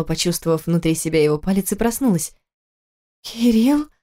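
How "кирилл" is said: rising surprised question; waking up puzzled. A narrator's reading. Wife wakes, surprised to find husband. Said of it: "удивилась она".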